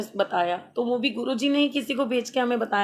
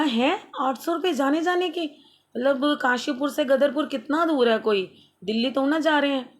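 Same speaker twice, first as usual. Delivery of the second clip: incredulous outrage; 5 semitones higher than usual. Retold or imitated. Outraged at auto fare.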